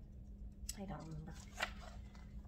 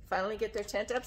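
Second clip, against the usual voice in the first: ordinary delivery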